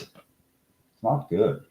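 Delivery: a very slow, heavy delivery of the bad news; grave doctor verdict. Doctor announcing the exam result to the room, mock grave and very slow. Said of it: "and he goes".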